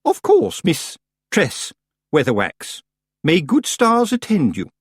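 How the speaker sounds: very high, sugary farewell; sweet on top, cold beneath; haughty Missus Earwig. A narrator's reading.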